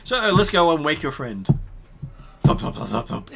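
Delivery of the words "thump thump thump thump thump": short, repeated spoken thuds; imitated door thumps. Game master mimics knocking to wake a friend, spoken thumps. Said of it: "this isn't a light thump".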